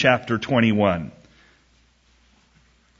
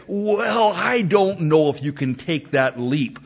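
mock hesitant objection; 4 semitones higher than usual. Witness friend balking at the argument, mock hesitant. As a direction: put on a doubter reluctant to concede.

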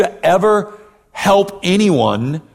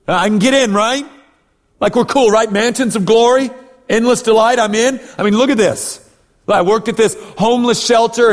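higher-pitched, eager mock pleading of a case; cocky self-justifier; 5 semitones higher than usual. Believer showing God a resume, mock cocky pitch. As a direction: rattle off your good deeds, angling for approval. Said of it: "throw out before God and say".

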